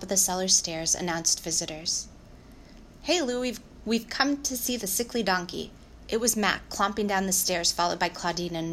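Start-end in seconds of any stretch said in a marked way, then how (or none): 3.0-5.7 breezy greeting. Acted. Brother calls down on arrival.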